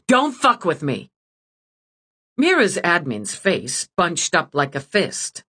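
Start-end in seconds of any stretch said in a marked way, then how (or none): 0.1-1.1 curt snap. Acted. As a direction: cut her off hard. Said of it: "she snapped at the dragon".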